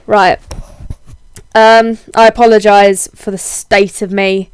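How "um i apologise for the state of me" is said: husky voice from a heavy cold; hoarse, under-the-weather husky voice. Real, not acted. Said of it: "my very husky man voice at the moment".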